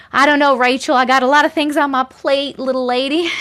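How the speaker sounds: lightly drawled put-on accent, teasing chat. Teasing Rachel in chat with a light put-on accent. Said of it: "Sometimes when I start an accent".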